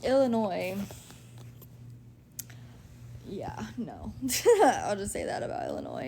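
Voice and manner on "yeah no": dry whisper. Real, not acted. Dry verdict on Illinois.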